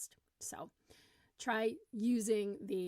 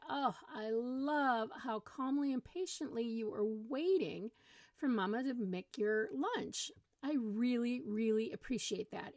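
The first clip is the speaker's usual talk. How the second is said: put-on modeled praise to a small child; encouraging praise; 2 semitones higher than usual.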